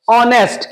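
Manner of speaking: ऑनेस्ट said with a silent h, starting on the vowel ओ; ऑनेस्ट spoken vowel-first, no h sound; pronunciation of honest. Shown as a demonstration. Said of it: "इसका pronunciation कैसे होगा?". (ऑनेस्ट का उच्चारण ओ से, एच silent)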